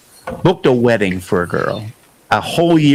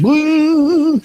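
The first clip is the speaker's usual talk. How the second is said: high startled yelp; a hammed-up shock at the news; mock startled woo. Saxophonist hearing the half-step news, mock startled woo. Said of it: "And his eyes went".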